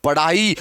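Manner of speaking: पढ़ाई said with a flapped ढ़ in the middle; contrast demo. Shown as a demonstration. Teacher contrasting two words, light flapped tap. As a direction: flick the tongue lightly for the ढ़ in पढ़ाई. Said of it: "दोनों का उच्चारण का फर्क है".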